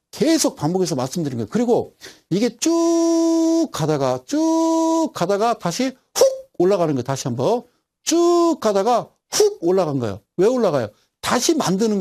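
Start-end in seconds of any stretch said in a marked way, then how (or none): 2.6-5.6 쭉 held very long on a high, level note; drawn-out illustration. Shown as a demonstration. Teacher tracing a chart line for students, 쭉 drawn out high. 8.0-9.1 쭉 stretched long on a level tone; drawn-out illustration. Shown as a demonstration. Teacher showing the chart's run once more, 쭉 drawn out. Repeats the chart movement demonstration.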